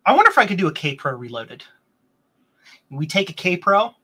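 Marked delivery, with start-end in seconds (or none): 2.9-3.9 word caught in a burp; a burp slips into the line. Real, not acted. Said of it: "Excuse me, I'm burping".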